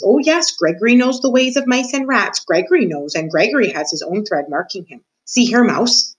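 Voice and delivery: a lightly voiced, gloating old jailer; a hint of a menacing jailer taunting the mouse; creepy old jailer. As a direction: savour every word like a sly old jailer in the dark. Reader voices Gregory the jailer.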